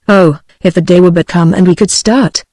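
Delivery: a mild, wistful longing in the voice; passionate yearning. Acted. Joan to her father, longing to go home, mild passionate yearning. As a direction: wish it aloud, aching to go home. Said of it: "with a passionate yearning".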